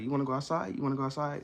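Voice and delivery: eager, rising sing-out to a pet; enthusiastic. Shown as a demonstration. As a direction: ask it like getting a dog excited to go out.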